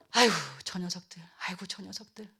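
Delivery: low, soft, sighing lament; resigned, low and slowing at the end; weary disappointment. Acted. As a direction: sigh over wayward children. God voiced giving up on people.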